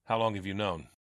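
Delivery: restrained demand. Acted. Police captain confronting his ally about Harvey, restrained demand. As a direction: ask it tightly held in.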